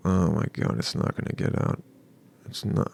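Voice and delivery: breathy whispered panic, voice dropped low; panicked whisper. Retold or imitated. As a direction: whisper to yourself, alarmed. Panicked inner thought.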